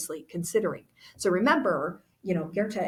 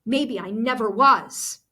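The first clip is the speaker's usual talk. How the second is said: louder, higher, bitter questioning, slowing at the end; angry accusation; 4 semitones higher, 4 dB louder than usual. Acted. Goethe confronting Anna about spying for the Stasi, angry. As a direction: throw the betrayal in her face. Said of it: "Goethe's mad".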